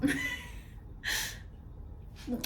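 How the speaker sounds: soft, voiceless laugh against tears; shaky-breathed laugh, fighting crying; breathy tearful laugh. Acted. Apologizing for nearly crying over her friend, breathy laugh. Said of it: "I promised you I'm not gonna cry".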